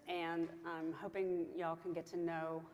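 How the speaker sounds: slow, slipping into a Southern drawl; Southern accent. Real, not acted. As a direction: let the Southern accent slip out. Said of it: "there's my Southern accent came out".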